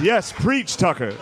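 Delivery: put-on old white dad at the TV, churchy; mock church response. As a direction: shout amen at the TV.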